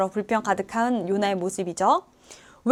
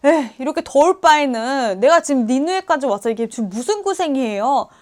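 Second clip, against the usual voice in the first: complaining Jonah. Acted. Jonah grumbling at God about the heat, mock complaint. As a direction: whine and protest at God like a sulking prophet. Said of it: "엄청난 불평, 불만 가득한 요나의 모습".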